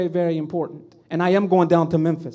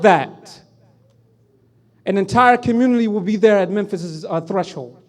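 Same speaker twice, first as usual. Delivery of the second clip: retold defiant reply; 2 semitones higher, 7 dB louder than usual.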